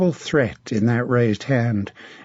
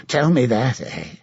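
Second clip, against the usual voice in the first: a mad, leering knight taunting his captive; sinister, mocking menace; a twisted zealot savouring the moment; creepy villain. Sir Martin menaces Melisande.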